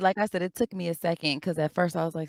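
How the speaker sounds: normal talking voice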